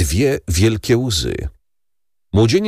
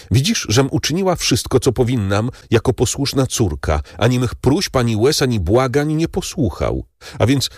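pleading daughter; 6 semitones higher than usual. Acted. Valentin pleads, voice raised.

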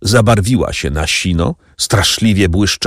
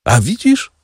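horrible laugh; 12 semitones higher than usual. A narrator's reading. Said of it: "z okropnym śmiechem".

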